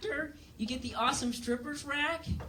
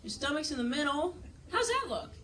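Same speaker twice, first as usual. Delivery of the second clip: a hint of a chirpy clerk, rising higher; lightly voiced helpful clerk; 5 semitones higher than usual. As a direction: play the eager shop woman. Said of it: "she's like".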